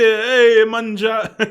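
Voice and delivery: loud, high mock Italian accent; playful Italian accent, laughing at the end; Italian parent voice. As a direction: call it out like an Italian parent at dinner. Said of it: "you just kinda get the".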